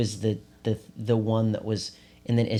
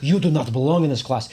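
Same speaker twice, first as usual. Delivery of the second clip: loud, higher mock Russian accent, stern; Russian accent impression; 4 semitones higher, 6 dB louder than usual. Music teacher scolding kids in a loud mock Russian accent. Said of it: "in this Russian-sounding accent".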